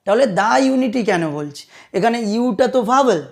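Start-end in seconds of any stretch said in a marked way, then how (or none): 0.4-1.0 "the" pronounced "daa" before "unity". Shown as a demonstration. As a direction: say "the" with an open aa. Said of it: "দা উচ্চারণ করা হচ্ছে". ("the"-কে "দা" উচ্চারণ)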